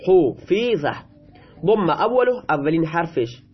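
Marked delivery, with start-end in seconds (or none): 0.1-0.9 حفیظه said "hu-fii-za", kasra stressed; passive vowelling. Shown as a demonstration. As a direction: sound out حفیظه with u, then a clear i.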